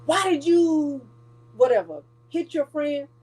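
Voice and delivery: lightly voiced grown-up grilling a kid; mild imitation of a nagging grown-up; questioning adult. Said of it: "this little kid".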